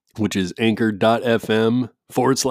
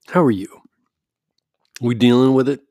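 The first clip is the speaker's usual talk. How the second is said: whisper. Real, not acted. Host checking on listeners, in a whisper. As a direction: lean in and whisper the question.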